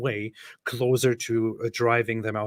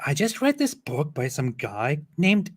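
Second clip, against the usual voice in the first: put-on white girl voice; 4 semitones higher than usual. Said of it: "read it in a white girl's voice".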